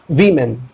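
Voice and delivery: "वीमेन" said as vee-men; "वीमेन" with the vee sound; correct "women". Shown as a demonstration. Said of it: "बदल के हो जाएगा वी".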